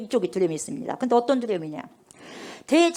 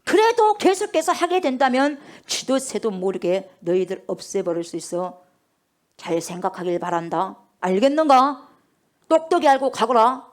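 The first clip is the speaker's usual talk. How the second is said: menacing threat. Retold or imitated. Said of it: "이렇게 막 무섭게 엄포를 내고 하는 거예요".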